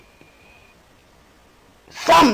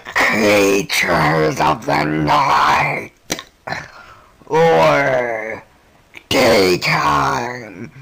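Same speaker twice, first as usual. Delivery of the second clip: low, slow monster drawl; 4 semitones lower, much slower than usual. Acted. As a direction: drag it out like a Halloween monster. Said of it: "enough of that monster voice".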